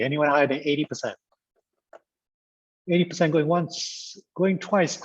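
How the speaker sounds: lightly voiced auctioneer's final call; mock auction countdown, pitch climbing to the close; playful auctioneer. Trainer closing the last round of guesses, playful auctioneer. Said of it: "This is like an auction".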